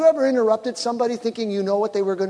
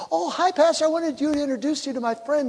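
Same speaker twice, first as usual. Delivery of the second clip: higher, bright interrupting churchgoer; a churchgoer cutting in to introduce a friend, higher and chirpy; mock chirpy greeter; 8 semitones higher than usual. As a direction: breeze in all cheerful to introduce a friend. People interrupting pastor, mimicked.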